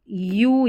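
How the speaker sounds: यू drawn out as yoo; long yoo sound. Shown as a demonstration. Teacher demonstrating the letter's sound, यू as long yoo. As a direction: hold यू with its y glide. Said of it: "ये वाला sound दे रहा है".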